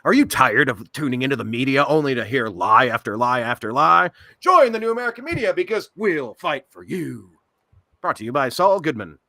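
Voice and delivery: loud late-night commercial pitch; hard-sell infomercial voice; mock TV ad announcer; cheesy ad read. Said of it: "cheesy commercials".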